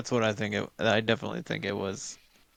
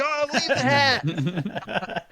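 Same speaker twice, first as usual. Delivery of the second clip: urgent call; 12 semitones higher, much slower than usual. Pretend. Imagined friends yelling to flee.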